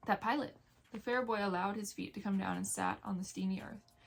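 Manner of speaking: steady read-aloud storytelling voice; story narration. Acted. Vlogger reading a novel aloud to viewers, measured narration.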